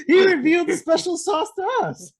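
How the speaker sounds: high laugh through the words; laughing tease. Real, not acted. Laughing over the reveal.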